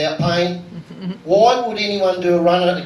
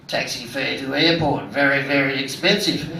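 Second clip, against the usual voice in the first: mock Japanese passenger; 4 semitones lower than usual. Taxi driver mimicking his Japanese passenger, a light low mock voice. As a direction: drop the voice and plod through it like the passenger.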